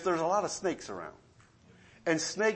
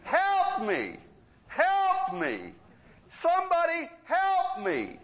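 high, rising mock yells for help; retold cry for help; 12 semitones higher, slower than usual. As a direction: call out like the trapped woman. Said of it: "So she starts screaming".

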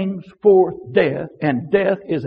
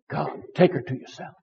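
quiet weary prayer; 2 semitones lower, 8 dB quieter than usual. Retold or imitated. Son praying alone in his car for his mother, quiet plea. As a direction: pray it privately, well under your breath.

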